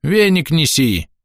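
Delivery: put-on high, slow cracked old man's order. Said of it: "надтреснутый голос Захария".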